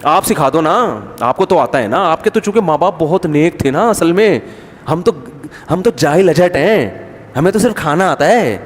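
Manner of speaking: mock-humble digs, lightly acted; sarcastic retort. Daughter-in-law answering back to mother-in-law, sarcastically. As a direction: imitate a daughter-in-law's taunting comeback. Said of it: "وہ طنز اس لیے کر رہی ہے".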